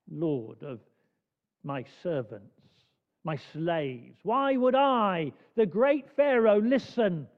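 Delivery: proud ruler sneering at God; booming pharaoh. Retold or imitated. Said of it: "you get this sense of the arrogance".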